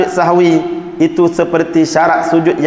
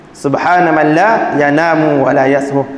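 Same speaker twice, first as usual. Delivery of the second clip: slow recitation; 2 semitones lower, slower than usual. Shown as a demonstration. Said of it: "sunat membaca padanya dalam sujud".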